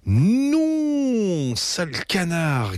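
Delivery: high, slow yelp at the duck; Betty yelping at the duck; yelping girl. A narrator's reading. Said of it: "glapit Betty".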